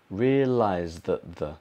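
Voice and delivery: slow realised that the with D almost gone; dropped D. Shown as a demonstration. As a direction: link realised smoothly into that. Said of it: "drop the D".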